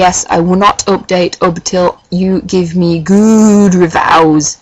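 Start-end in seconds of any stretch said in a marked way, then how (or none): 3.0-4.6 mock demand. Mock menacing plea for reviews.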